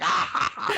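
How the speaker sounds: imitated breathy burst of laughter; mock laughing gasp. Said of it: "He's laughing like you're laughing".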